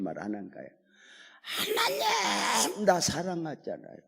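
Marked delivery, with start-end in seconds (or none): 1.4-4.0 high, slow crying plea; pleading whine. Acted. Hanging man wheedles God to save him, tearful whine. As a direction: whimper it out like a wheedling child.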